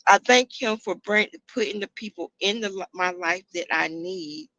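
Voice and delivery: tearful but holding it together; holding back tears. Real, not acted. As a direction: voice near tears, trying not to cry. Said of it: "I'm trying not to cry".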